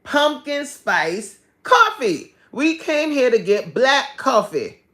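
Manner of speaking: a mock stern refusal to the devil; firm refusal. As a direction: refuse the temptation firmly. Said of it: "I'm like".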